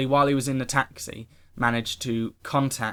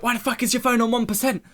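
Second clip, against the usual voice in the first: high-pitched, incredulous outburst imitating dad; squawked parental exasperation, acted out; exasperated dad; 10 semitones higher than usual. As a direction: mimic a dad's appalled disbelief. Imitates dad's exasperated reaction on phone.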